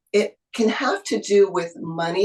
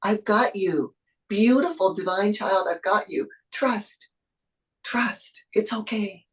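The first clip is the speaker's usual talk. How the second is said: tender spirit voice fading to a whisper; 2 semitones higher than usual. Acted. Spirit comforting the anxious single mom, fading to a hush. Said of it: "blessings from spirit telling you".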